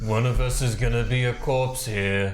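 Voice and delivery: loud in-character warning; calling out. Acted. Player's character warns an ally mid-fight, calling out. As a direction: call it out firmly to an ally. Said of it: "you call out like that".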